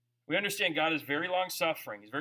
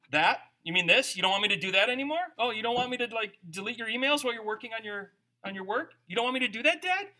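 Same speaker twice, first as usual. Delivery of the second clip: put-on teasing child voice; 4 semitones higher, faster than usual. Daughter voiced teasing dad.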